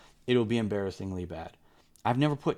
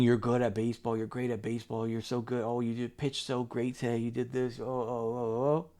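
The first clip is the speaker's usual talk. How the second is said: mock gushing praise. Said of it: "instead of saying".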